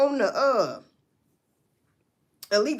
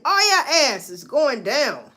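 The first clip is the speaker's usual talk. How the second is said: mock warning; 2 semitones higher, 6 dB louder, slower than usual. Mock raid announcement.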